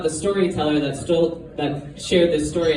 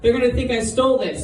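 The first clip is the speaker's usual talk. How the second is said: high-pitched mock panic; acted-out startled freak-out, much higher voice; 9 semitones higher, faster than usual. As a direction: yelp it like a character suddenly panicking. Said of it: "she freaks out".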